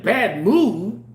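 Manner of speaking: a touch of disbelief, rising at the end; incredulous. Retold or imitated. Repeating her words back with mild disbelief. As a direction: question it lightly back. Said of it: "that's exactly how I was talking".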